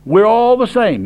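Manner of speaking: mocking quote. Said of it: "That's what they say".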